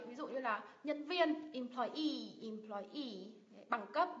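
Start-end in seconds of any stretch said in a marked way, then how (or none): 1.5-3.3 "employee" as em-ploy-EE, last syllable held; teacher's model of "employee", weight on EE; stress on final syllable. Shown as a demonstration. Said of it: "nhấn vào ngay cái âm tiết đấy".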